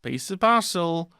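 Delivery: high, loud hammed-up killer voice; mock villain. Pretending to be the Ripper, high and loud hammed-up menace. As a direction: camp it up as a cartoon murderer. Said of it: "I'm being a musician".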